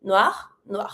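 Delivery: both noir end on a French R; French "noir" as nwahr; sounded final R. Shown as a demonstration. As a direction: say "noir" alike twice, R sounded. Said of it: "pronounce the R for both".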